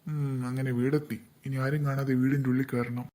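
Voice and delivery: sneaky hushed voice. Acted. Thief sneaking into a dark house, speaking hushed. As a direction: keep it hushed so nobody hears.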